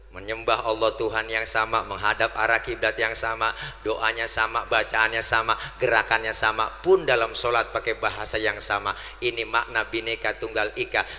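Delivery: low, steady preacher's litany; deklamasi khotbah. Acted. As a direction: recite the list in measured, even phrases. Preacher declaims a set litany. (deklamasi khotbah bernada rendah dan rata)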